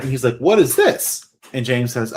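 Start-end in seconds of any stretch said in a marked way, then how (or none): 0.4-1.3 higher, lightly voiced innocent child doll; innocent question. Doll pointing at a biology book, innocently curious imitation. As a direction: ask it with mock childlike innocence. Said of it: "innocently points at it".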